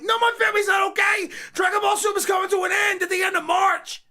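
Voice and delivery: high, strained overblown lament; mock despair. Telling the ladies why, high mock anguish. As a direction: play the news like a family tragedy. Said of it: "I'm like".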